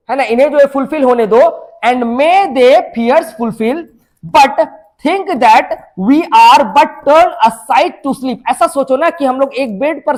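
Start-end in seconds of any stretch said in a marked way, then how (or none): 1.8-8.4 very slow, drawn-out declamation; slow, emphatic poetry reading; poem recitation. Acted. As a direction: recite verse word by word, stretching it out. Reads poem lines aloud.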